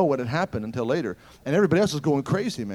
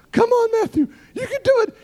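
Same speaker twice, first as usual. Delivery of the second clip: shouted high, pleading him up; a fervent loud shout; urgent call; 8 dB louder than usual. Retold or imitated. Urging man to rise.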